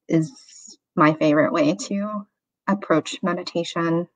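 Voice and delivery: unhurried meditation guide with long pauses; guided meditation. Real, not acted. Meditation teacher inviting listeners into a body scan, calm guiding voice. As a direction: gently lead them through the breath, leaving room between phrases.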